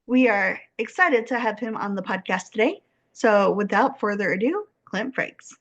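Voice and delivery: scripted bio read with lifted, measured phrasing; formal host introduction; podcast guest introduction. Real, not acted. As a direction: read the guest's credits out for an audience.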